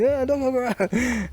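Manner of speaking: high, loud Japanese mock outburst; retold loud exclamation. Bloke repeats his question in Japanese, loud mock outburst.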